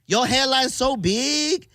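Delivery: high, slow imitated Asian accent; thick Asian accent. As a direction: mimic a child putting on an Asian accent. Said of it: "she said in a thick Asian accent".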